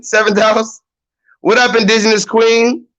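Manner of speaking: ordinary delivery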